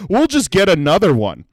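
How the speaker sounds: hint of breezy, moneyed unconcern; lightly voiced rich customer. Rich customer after a spilled drink, lightly acted breezy dismissal. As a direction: lightly play a carefree wealthy diner. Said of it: "They were so rich in that area".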